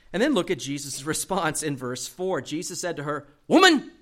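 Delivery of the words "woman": sharp loud yelled "Woman!" jumping way up in pitch; harsh shouted woman. Shown as a demonstration. Preacher jokingly yells at his mother. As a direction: bark "Woman!" like a rebuke, high and loud. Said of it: "Don't add that voice inflection".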